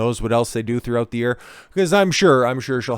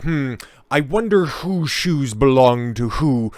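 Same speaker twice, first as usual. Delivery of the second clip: sly musing; 3 semitones higher, 3 dB louder, slower than usual. Acted. Scheming musing at the shoe rack.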